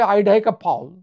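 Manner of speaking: ইদিকা পাল said as আইডাইকা ফাউল, "ai" vowels in American style; American accent. Shown as a demonstration. Lecturer mocking an American reading of the name, American accent. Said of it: "যদি American করেন".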